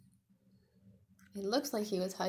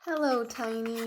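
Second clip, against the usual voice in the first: Pointy's voice; 3 semitones higher, 7 dB louder than usual. Acted. Pointy greeting Tiny, lightly voiced. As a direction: answer an old friend.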